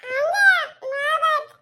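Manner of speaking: put-on tearful child's plea, pitch lifted; crying child. Child begging her mother, crying. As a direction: whimper it out like a child near tears. Child pleading, about to cry.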